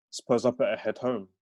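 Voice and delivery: understated Birmingham sign-off; Brummie accent. Acted. Fraser getting up to head home, in Brummie accent. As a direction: wrap up in light Brummie. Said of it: "aren't familiar with the Brahmi accent".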